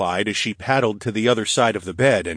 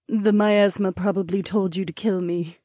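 kind smile; 11 semitones higher than usual. Acted. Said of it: "with a kind smile".

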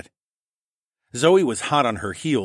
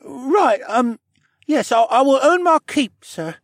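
high-pitched, halting reply; chastened boy; 8 dB louder than usual. A narrator's reading. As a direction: answer haltingly, trailing off on sir. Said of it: "he muttered".

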